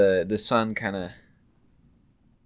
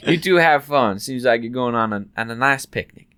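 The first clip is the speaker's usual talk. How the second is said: cheery shopkeeper; 2 semitones higher, 7 dB louder than usual. Acted. Shopkeeper sees them off.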